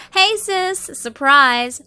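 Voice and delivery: loud, high cheerful shout; excited greeting. Acted. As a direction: burst out with the surprise. Narrator greets sister excitedly.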